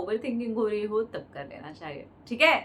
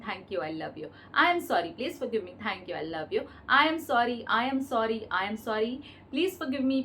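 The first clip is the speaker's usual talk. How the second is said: mantra recitation; much slower than usual. Acted. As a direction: chant it evenly, round after round. Repeats the prayer as mantra. (लयबद्ध प्रार्थना का जाप)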